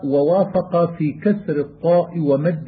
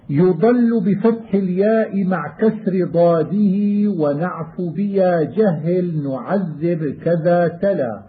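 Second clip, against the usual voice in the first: measured chanted recitation of a teaching poem; verse recitation; 2 semitones higher than usual. Acted. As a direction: recite the verses slowly and evenly, like a student reciting. Chanting didactic verse lines. (إنشاد متن بتؤدة)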